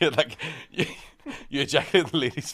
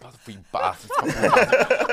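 mum cursing the wee lads once more; mum swearing again. Retold or imitated. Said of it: "She's like".

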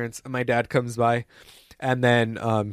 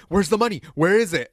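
higher-pitched mock interrogation; demanding administrator; 4 semitones higher than usual. Administrator demands hidden money from student, mock demanding. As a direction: press for an answer, pitched up.

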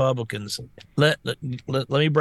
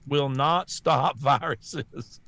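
slow mock reading; much slower than usual. Reads box label slowly.

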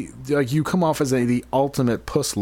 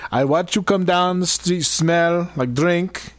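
African security guard voice; 3 semitones higher than usual. Acted. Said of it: "my African security guard voice".

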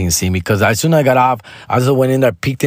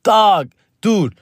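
much higher excited goofy voice; silly Joy Coy; 10 semitones higher, slower than usual. Retold or imitated. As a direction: gush like a giddy fan of the joke. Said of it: "And he tells me".

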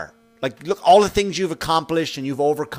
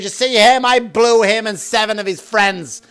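mock boastful drunk woman; 4 semitones higher, slower than usual. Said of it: "and she goes".

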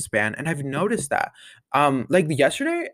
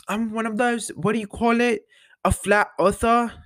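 imitating Millie; 8 semitones higher than usual. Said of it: "And she's like".

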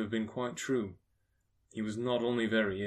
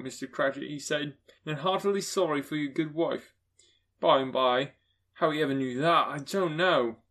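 higher and louder, warm and eager; a father sharing kind news; Bob's voice; 4 semitones higher, 6 dB louder than usual. Acted. Bob to his family about Scrooge's nephew, eager.

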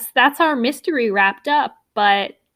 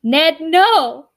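Nancy's louder, higher desperate plea; pleading; 6 semitones higher, 5 dB louder than usual. Acted. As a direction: beg him not to leave.

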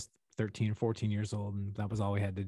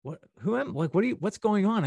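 baffled; 9 semitones higher than usual. Retold or imitated. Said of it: "I'm like".

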